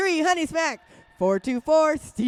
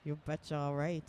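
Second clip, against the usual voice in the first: put-on upper Midwest accent; 7 semitones lower, 6 dB quieter, faster than usual. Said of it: "upper Midwest accent".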